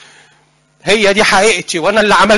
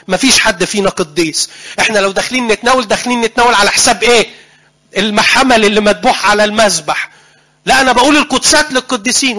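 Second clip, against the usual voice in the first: heated retort; 3 semitones higher than usual. Retold or imitated.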